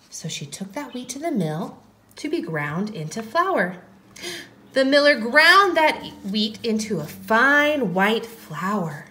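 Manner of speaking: gentle, measured storytelling; story narration. A narrator's reading. Teacher tells how the wheat grew, gentle narration. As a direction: tell it to little ones.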